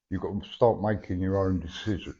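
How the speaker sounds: speaking without dentures; toothless. Real, not acted. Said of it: "Sorry, I haven't got no teeth in, so some words I can't say".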